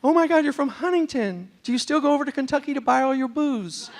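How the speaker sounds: thrilled to meet someone from back home; excited. Retold or imitated. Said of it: "I get excited".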